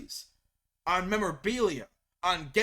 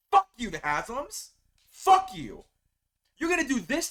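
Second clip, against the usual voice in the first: furious shout; 4 semitones higher than usual. Real, not acted. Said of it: "That's my reaction. That's the anger in me".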